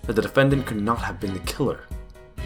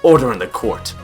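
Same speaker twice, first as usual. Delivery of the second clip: raised judge's voice over an uproar; calling for order; 6 dB louder than usual. Acted. Judge quieting a noisy courtroom, calling for order. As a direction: open loud, then come down firmly.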